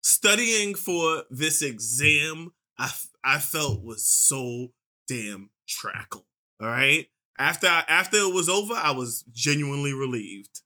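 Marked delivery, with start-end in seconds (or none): 0.0-6.2 slow example sentence. Shown as a demonstration. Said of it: "I'm gonna use it in a sentence".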